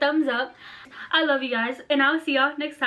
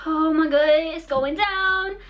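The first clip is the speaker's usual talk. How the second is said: louder, then a slow high wail of mock panic; panicked wail; 4 semitones higher, 3 dB louder, slower than usual. Girl drifting in a paddle boat, mock panicked wail. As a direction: stretch it out like the end has come. Drifting, friends start crying.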